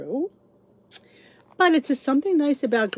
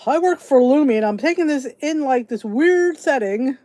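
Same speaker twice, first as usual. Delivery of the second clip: louder, mocking the commercial guy; parodying the bathroom commercial; 4 dB louder than usual. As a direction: ham up the Lumi pitch a little. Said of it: "Those are the stinking Lumi commercials".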